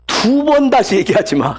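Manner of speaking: slow, stern "두 번 다시 얘기하지 마"; stern God forbidding; stern warning. Retold or imitated. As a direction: lay down the law slowly. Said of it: "그럽니다".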